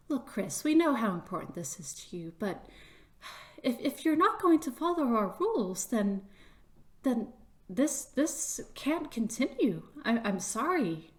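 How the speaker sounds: lightly voiced, hesitant mouse official; regretful official. Official warns Chris about the rules, mildly apologetic. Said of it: "official kind of goes".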